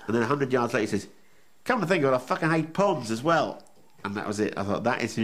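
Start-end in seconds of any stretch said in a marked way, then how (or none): 1.6-3.6 mock Aussie cabbie punchline. Voicing the driver's punchline.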